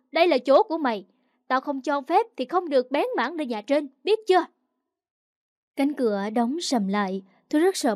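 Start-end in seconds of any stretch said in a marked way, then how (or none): 0.1-4.4 acted stepmother laying down orders; stern warning, jumping high on the final question; stern threat. Stepmother banishes girl to shed.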